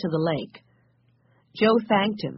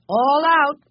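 high, loud call; 10 semitones higher, 6 dB louder than usual. A narrator's reading. Joe to the children as the car stops, calling out. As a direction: call it out to everyone, pitched high. Driver calls passengers out of car.

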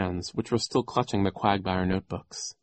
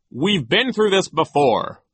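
high, loud, slow weariness; exasperated Nero; 9 semitones higher, 7 dB louder, slower than usual. A narrator's reading. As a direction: dismiss it with irritation. Nero dismisses the children.

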